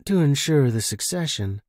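a light flirty edge, understated; flirting with the station keeper over the radio; sexy edge. Acted. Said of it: "that sexy edge coming back into her voice".

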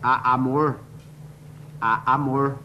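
lightly voiced stammer on amor; stutterer.

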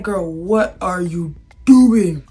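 drawn-out, slow exasperated question; exasperated disbelief. Retold or imitated. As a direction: stretch out DOING in disbelief. Acted retort to rude girl.

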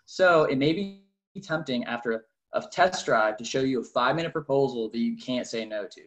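fast, eager car salesman spiel; sales pitch. Shown as a demonstration. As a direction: rattle off the dealership script. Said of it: "I'm gonna go through this one more time".

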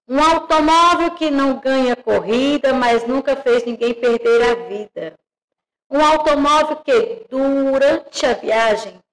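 lilting storybook reading, each line lifted; reading aloud to children. Acted. Teacher reading a car story to her pupils, lilting storybook voice. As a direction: read it out like a picture book to small kids.

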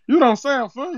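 a lightly put-on accent, prank caller opening the complaint; Zeke from Power. Prank caller tells the home cook about old food, lightly put-on accent. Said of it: "why is he talking like Zeke off power".

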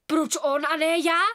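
a loud, indignant cry; indignant child shouting. A narrator's reading. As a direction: demand it loudly. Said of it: "vykřikla Ela".

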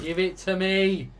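panicking gamer. Real, not acted. Panicked demand in fight.

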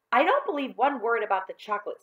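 high, loud disbelief; scornful schoolgirl retort; scornful girl. Acted. Susan scoffs at John.

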